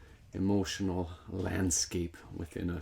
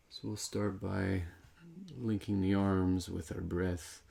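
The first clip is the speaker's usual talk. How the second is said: unhurried meditation guidance, pausing between phrases; guided meditation. Real, not acted. Teacher leading meditators in linking arms with breath, calm guided meditation. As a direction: guide them calmly through each breath. Leads breath and arm movement.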